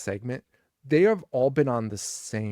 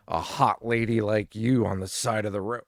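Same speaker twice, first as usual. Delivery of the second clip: creepy come-on; 2 semitones lower than usual. Retold or imitated. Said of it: "Lloyd kinda goes off the rails".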